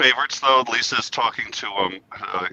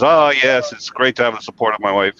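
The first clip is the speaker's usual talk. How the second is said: loud, high Homer voice; Homer impression; 4 semitones higher, 4 dB louder than usual. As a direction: gush smugly as Homer. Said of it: "He goes".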